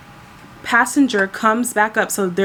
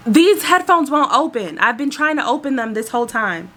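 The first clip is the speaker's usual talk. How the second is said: high-starting mock complaint; retold whiny protest, pitch easing down; imitated complaining; 4 semitones higher than usual. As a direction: mimic an exasperated, demanding passenger. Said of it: "the one that was screaming and yelling".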